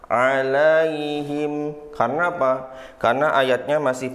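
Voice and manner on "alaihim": alaihim drawn out slowly with a rising, unresolved end; hanging end. Shown as a demonstration. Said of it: "tapi kita gantung". (alaihim digantung, pelan dan naik)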